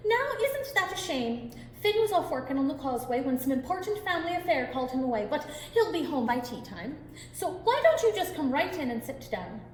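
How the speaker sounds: sweet as honey to fool the giant; sweetest smile. Acted. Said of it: "with her sweetest smile".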